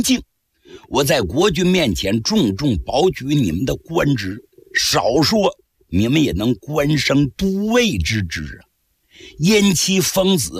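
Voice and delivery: a hint of a begging general; lightly voiced pleading captive. Captured general begging two guards, lightly pleading.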